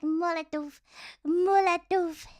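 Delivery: lightly voiced Russian player; a hint of hammed-up Russian accent; mock Russian gamer. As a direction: imitate a Russian teammate's callout. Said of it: "I think they always say".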